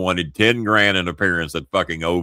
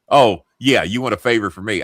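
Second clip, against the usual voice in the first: 1 sarcastic; 2 semitones higher, 4 dB louder than usual. Retold or imitated. Sarcastic Big Show voiced.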